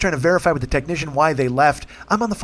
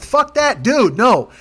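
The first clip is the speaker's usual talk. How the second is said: much higher, sharp, angry retort; angry outburst; 7 semitones higher, 4 dB louder, much slower than usual. Retold or imitated. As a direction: snap back at the supervisor. Angry retold phone call.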